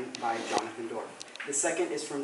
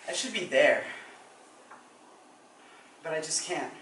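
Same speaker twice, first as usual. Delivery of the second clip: subdued dramatic monologue. Acted. Student unable to face the funeral, subdued dread.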